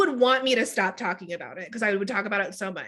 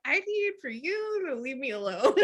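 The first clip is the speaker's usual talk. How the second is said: laughing; 3 semitones higher, 5 dB quieter than usual. Retold or imitated. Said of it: "And she would be like".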